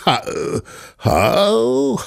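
nervous cover-up stammer; flustered stammer. A narrator's reading. Servant stammers, covering his insult.

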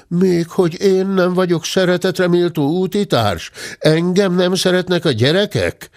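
put-on high, hurt old servant protesting; offended servant bear. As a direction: plead wounded and high. Bátya's voice again.

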